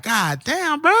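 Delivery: amazed fan. Retold or imitated. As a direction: breathe it out in awe. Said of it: "I'm just like".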